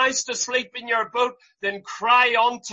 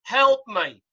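crying for help; 4 dB louder, slower than usual. Retold or imitated. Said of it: "He cried out to Christ".

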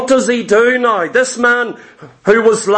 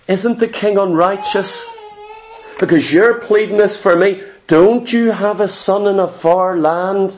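pleading widow; 2 semitones lower than usual. Acted. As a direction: pretend widow tearfully pleading with King David.

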